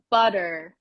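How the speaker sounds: "butter" with one light tongue tap in the middle; tapped middle T. Shown as a demonstration. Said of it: "way those words are pronounced".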